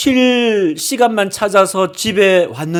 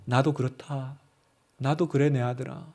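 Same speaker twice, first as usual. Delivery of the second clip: lower, much softer fatherly reply; God answering tenderly; 7 semitones lower, 11 dB quieter than usual. Acted. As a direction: answer as a gentle father to his son. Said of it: "하나님이 응답해 주실 겁니다".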